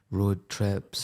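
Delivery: Scottish vowels on "road"; "road" said as a Scottish "rod"; Scottish "road trips"; Scottish accent. Real, not acted. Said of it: "About road?".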